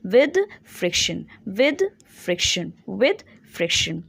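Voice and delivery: with friction, very slow and spelled out; slow drilled repetition. Shown as a demonstration. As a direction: chant it slowly so students memorise. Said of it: "definition बस इतना याद रखना है". (धीरे-धीरे रटवाते हुए)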